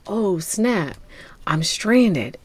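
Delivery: a light retold whisper of alarm; whispered retold gasp. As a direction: breathe it out as a mock stranded girl. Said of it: "she's like".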